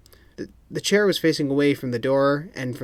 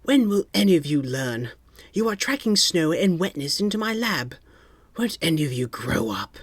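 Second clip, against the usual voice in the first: grumpy Q; 5 semitones higher than usual. A narrator's reading. Q scolds the spies.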